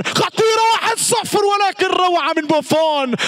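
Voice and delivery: sudden high yell at a near goal; commentator's startled shout; excited chance call. Real, not acted. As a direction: jump up as the shot flies. Big chance, keeper saves.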